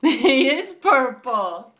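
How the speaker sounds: laughing, slow and loud. Real, not acted. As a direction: laugh with delight at the answer. Delighted mother praising toddler.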